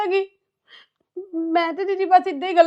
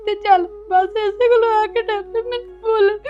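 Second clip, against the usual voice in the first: tearful protest; 3 semitones higher than usual. Acted. Bride tearfully defending herself.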